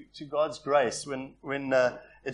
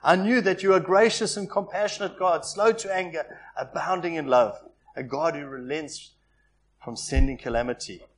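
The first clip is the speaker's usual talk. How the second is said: Jonah's indignant complaint, raised and louder; a prophet protesting to God, raised voice; angry prayer; 2 semitones higher, 6 dB louder than usual. Retold or imitated. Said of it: "He prayed to the Lord".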